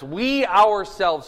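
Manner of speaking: slow "we ourselves", weight on "we"; emphatic stress on we. Shown as a demonstration. Preacher showing the Greek emphasis, stressed we. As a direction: lean on "we" and stretch it out. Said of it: "so it's emphatic".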